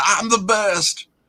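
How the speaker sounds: high, slow, boastful wrestling heel voice impression. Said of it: "he's gonna climb that ladder, grab the belt".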